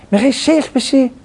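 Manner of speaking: light Mashhadi lilt on the question; Mashhadi accent. Retold or imitated. Retelling doctor's jab, mild Mashhadi accent.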